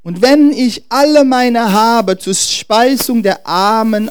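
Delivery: loud, drawn-out verse building, then slowing and dropping; emphatic scripture reading. Acted. Preacher reading scripture to the congregation, emphatic proclamation. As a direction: proclaim the verse, then let it sink slowly. Reads scripture aloud with force.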